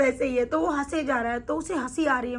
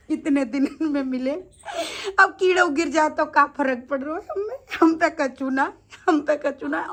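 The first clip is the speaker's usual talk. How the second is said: carefree retelling with a laugh at the end; retold laughing nonchalance. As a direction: lightly imitate someone amused and unbothered. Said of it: "वो हंस हंस के ये बात बोल रहा है". (बेफ़िक्र, आख़िर में हल्की हँसी)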